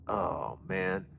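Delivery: low, soft sinking groan of dismay; dismayed mutter. Retold or imitated. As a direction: let it sink under your breath. Cop pulls in behind him.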